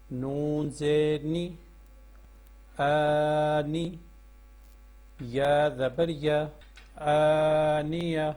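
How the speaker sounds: slow sing-song spelling chant, drawing out each joined word; measured classroom recitation of the Noorani Qaida. Shown as a demonstration. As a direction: chant each letter and its vowel for pupils to repeat. Teacher chants spelling drill.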